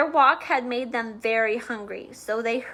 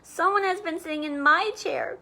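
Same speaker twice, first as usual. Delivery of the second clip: put-on higher baby bear voice; wee small voice; 5 semitones higher than usual. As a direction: lift it up like a little cub. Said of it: "in his wee small voice".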